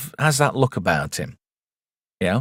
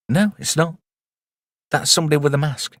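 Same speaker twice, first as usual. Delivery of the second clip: mock doubter voice; 4 semitones higher, faster than usual. Arguing with himself in two voices.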